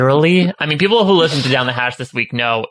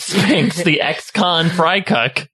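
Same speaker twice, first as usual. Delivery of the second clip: actor in character; 3 semitones higher, slower than usual. Pretend. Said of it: "I am".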